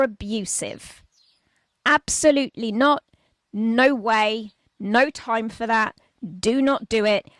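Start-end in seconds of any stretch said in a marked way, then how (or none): 1.8-7.3 louder, insistent refusal; firm warning. Real, not acted. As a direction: shut that idea down hard. Forbidding physical aggression.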